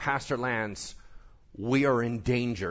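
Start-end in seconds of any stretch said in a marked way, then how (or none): none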